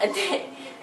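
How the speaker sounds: short, high laugh; brief high-pitched giggle between words. Real, not acted. Vlogger loses her thread mid-recap, short high laugh.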